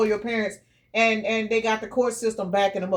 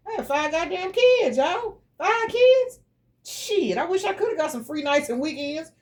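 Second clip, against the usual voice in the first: much higher, incredulous and fed up; exasperated outburst; 7 semitones higher than usual. Real, not acted. Single mother of five venting, high exasperated outburst. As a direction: let the frustration burst out.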